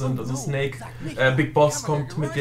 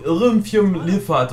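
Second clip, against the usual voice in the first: slow garbled reversed-sounding gibberish; backwards speech; 4 semitones higher, 4 dB louder, much slower than usual. Retold or imitated. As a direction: drawl nonsense syllables like reversed audio. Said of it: "haben wir es rückwärts gesprochen".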